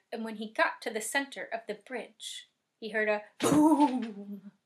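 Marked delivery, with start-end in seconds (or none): 3.4-4.5 long, loud drawn-out boom; booming sound effect. A narrator's reading. Storyteller as the sky darkens over the bridge, booming. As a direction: boom it out slowly like thunder.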